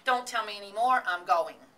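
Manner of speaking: loud, excited decision; crying out. A narrator's reading. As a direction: blurt it out at full voice. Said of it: "cried Temple".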